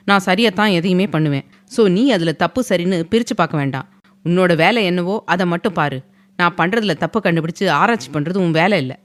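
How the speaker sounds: each point pressed home; firmly. A narrator's reading. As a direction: lay down the law, understated. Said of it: "அழுத்தமாக கூறிய". (அழுத்தமான உறுதியான குரல்)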